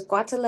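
Guatemala said in a playfully odd way; fun-to-say take on Guatemala; playful pronunciation. Real, not acted. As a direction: say Guatemala oddly, just for fun. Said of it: "Why are you saying it like that".

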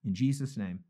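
earnest spoken prayer with deliberate pauses. Real, not acted. Host closing the study by addressing Father, earnest prayer. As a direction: pray aloud, pausing between phrases.

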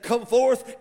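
mildly shouted summons; hollered command. Acted. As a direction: call it out as a lighter echo of the holler. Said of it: "Jesus hollered Lazarus".

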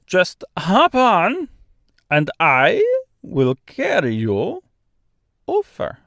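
slow, high, drawn-out Austrian-French bird; Austrian-French accent. A narrator's reading. Stork offering Dorothy a ride, slow Austrian-French accent. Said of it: "in a strangely thick, almost Austrian accent".

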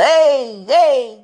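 loud, high shout of release; demo shout. Shown as a demonstration. Showing followers how to vent by shouting while running, loud yell. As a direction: yell it out like you're letting off steam. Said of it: "aí grita".

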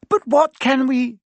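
put-on startled girl gasping mid-question; a hint of a frightened gasp. A narrator's reading. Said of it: "Hermione gasped".

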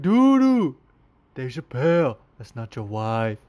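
Tupac skit voice. Retold or imitated. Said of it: "He was like".

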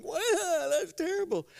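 high, pained mock whine through a bloody nose; stunned victim. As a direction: play the wounded guy, comically hurt. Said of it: "holding on to this bloody handkerchief in his nose and going".

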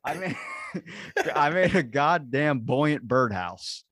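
cracking up while fighting a tongue twister; loud, high, laughing exasperation at each stumble; laughing frustration. Real, not acted.

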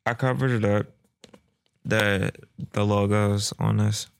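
talking right after a sip of coffee; words just after swallowing coffee; while sipping a drink. Real, not acted. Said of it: "Let me take a sip of this coffee".

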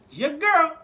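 high, loud hype call; excited shout. Real, not acted.

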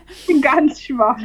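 slow, exaggerated feeble moan; hammed-up weak voice. Real, not acted. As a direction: lay the weakness on thick.

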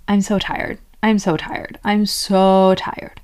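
mild repeated whine, SO drawn out on the last; mock complaint. Inner five-year-old grumbling to its owner, weary mock complaint. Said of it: "If my automatic brain is saying".

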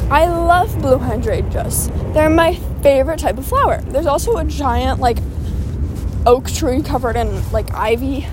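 breathless while walking; out of breath. Real, not acted. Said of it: "I'm out of breath".

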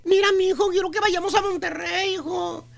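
lightly voiced coaxing mother; persuasive mother. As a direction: sweet-talk him into meeting the girl. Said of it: "le sale la mamá". (madre convenciendo con voz dulce apenas actuada)

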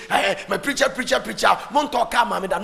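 mock angry preaching, fairly loud; angry preacher. Mimicking a pastor pleading for a car, mock angry. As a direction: imitate a worked-up preacher demanding. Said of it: "he's angry preaching".

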